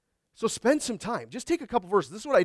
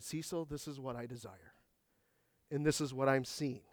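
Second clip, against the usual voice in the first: quiet inner voice; 5 semitones lower, 13 dB quieter than usual. Retold or imitated. God speaking quietly in heart.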